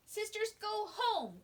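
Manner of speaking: put-on high, slow little-child call; baby voice. Baby sister calls to the others in a high, slow toddler voice. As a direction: say it like a toddler's first sentence. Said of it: "cried baby seventh sister".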